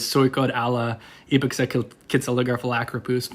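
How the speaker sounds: ipexecalcitzaligraphalacropus rattled off as reversed supercalifragilisticexpialidocious; gibberish-like reversed word, ipexecalcitzaligraphalacropus, recited evenly; backwards talk. Shown as a demonstration. Performing party trick for teammates, ipexecalcitzaligraphalacropus said backwards. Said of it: "they'd make me say supercalifragilisticexpialidocious".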